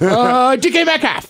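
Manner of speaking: high-pitched, flustered blurt; panicked. Retold or imitated. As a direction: re-enact blanking, then blurting out a name. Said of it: "And I, like, panic".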